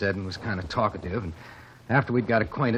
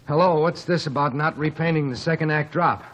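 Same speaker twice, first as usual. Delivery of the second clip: mock angry rush; 6 semitones higher, 4 dB louder than usual. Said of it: "all at once in a big rush".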